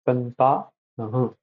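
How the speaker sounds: "Santanaha" said slowly, syllables measured out; long and short syllables. Shown as a demonstration. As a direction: draw out "Santanaha" slowly to show syllable length. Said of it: "how long you have to utter".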